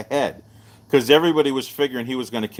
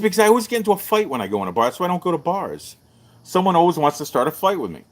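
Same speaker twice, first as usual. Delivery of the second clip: higher and fast, pleading his case; excited protest; 6 semitones higher, faster than usual. Retold or imitated. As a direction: rattle it off, worked up. Retelling his own protest.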